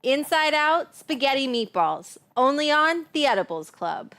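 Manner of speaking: upbeat ad read. Shown as a demonstration. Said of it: "that's how you get different takes".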